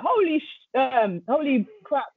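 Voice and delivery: high, stunned exclamation; acting out awed surprise, catching the swear; retold amazement. Invited to support again, high-pitched amazement.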